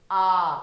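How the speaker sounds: आ held twice as long as अ. Shown as a demonstration. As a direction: draw out the आ. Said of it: "अ से ज्यादा समय लगेगा". (आ को लंबा खींचकर)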